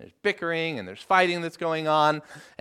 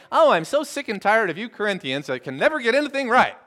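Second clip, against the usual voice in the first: exasperated scolding, higher and louder; chiding; 6 semitones higher, 5 dB louder than usual. Acted. Preacher imagining Paul scolding the Corinthians, mock chiding. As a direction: scold them like you are fed up. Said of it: "chiding them".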